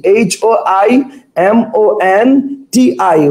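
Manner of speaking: each letter spaced out slowly; slow letter spelling. Shown as a demonstration. Teacher to class, spelling the word very slowly. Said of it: "teacher spells word letter by letter".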